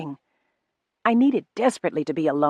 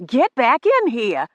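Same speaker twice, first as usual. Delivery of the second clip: 1 barked order; 7 semitones higher, 6 dB louder, slower than usual. A narrator's reading. Rufus orders her back.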